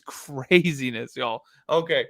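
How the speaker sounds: ordinary talk, nothing marked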